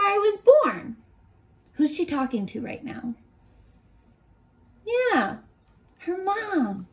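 gentle, expressive picture-book reading; reading a story to children. Acted. Teacher reads a picture book to her young class, storybook voice. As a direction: read it like story time for little kids.

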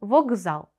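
«Вокзал» with к voiced to hard g. Shown as a demonstration. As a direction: model word «Вокзал», said vog-ZAL. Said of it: "лунає дзвінко як «г»".

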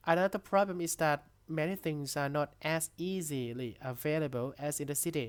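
reads each English word very slowly and clearly for the class; dictation-pace reading aloud; slow textbook reading. Shown as a demonstration. (อ่านข้อความภาษาอังกฤษช้ามากให้นักเรียนฟัง)

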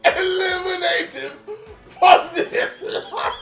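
high, slow, laughing anime voice; overacted anime dub. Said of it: "talking like an anime character".

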